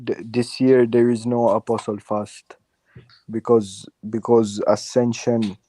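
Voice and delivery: put-on light Jamaican accent, lilting; a hint of Jamaican accent. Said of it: "ease up the accent".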